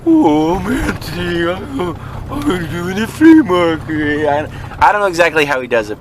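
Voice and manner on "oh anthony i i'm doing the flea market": high, slow mock voice; A J's voice for him. A J telling him about the flea market, high slow mock voice. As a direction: drag the words out high and silly. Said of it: "he goes".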